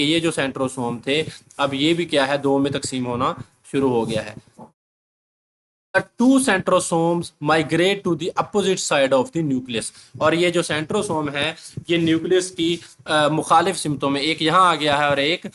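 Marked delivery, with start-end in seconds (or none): 6.0-9.9 reads the English line very slowly, word by word; slow dictation reading; slow textbook reading. Shown as a demonstration.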